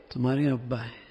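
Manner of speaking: mild warning tone; hint that a complaint is coming; threatening to tattle. Shown as a demonstration. About to report child's antics to father, mildly threatening. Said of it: "یعنی ابھی شکایت لگاتا ہوں تمہاری حرکتوں کی".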